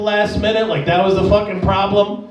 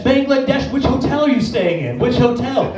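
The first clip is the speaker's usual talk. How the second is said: animated, over-clear questioning; super expressive. Acted. Worker quizzing a foreign tourist, super expressive. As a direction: spell it out for a foreign visitor. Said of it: "you have to be, like, super expressive".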